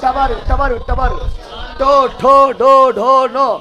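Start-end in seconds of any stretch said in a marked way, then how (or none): 1.8-3.5 टो ठो डो ढो नो slow and loud, tongue curled to roof; retroflex sounds. Shown as a demonstration. Teacher drilling the cerebral row, loud slow retroflex टो ठो डो ढो नो. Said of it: "ये मूर्धा कौन सी?".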